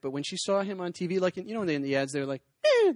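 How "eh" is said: short squeaky poke noise; a little poked-belly squeak; mock doughboy squeak; doughboy giggle noise. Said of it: "he'd make that little noise".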